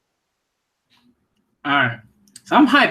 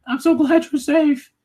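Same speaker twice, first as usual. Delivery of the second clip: mock crying retainer; 9 semitones higher than usual. Mocking the retainer's tearful words to his king, high and slow. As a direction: parody his tearful relief. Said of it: "look at him crying".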